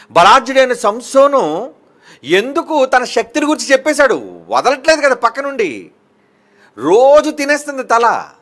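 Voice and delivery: fiery pulpit delivery; forceful preaching. Acted. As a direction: preach it hard at the congregation. Preaching Samson story.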